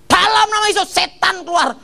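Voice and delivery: preacher's exorcism. Retold or imitated. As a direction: play the pastor driving out a demon. Preacher casting out demon.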